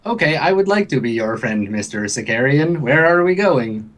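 lightly voiced computer octopus, polite; computery voice. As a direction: friendly question with a hint of machine. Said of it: "computery voice".

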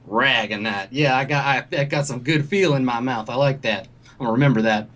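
lightly voiced folksy dealer, pleased; a hint of flattering salesman; country salesman. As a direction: savor it like a good old boy. Plays the salesman.

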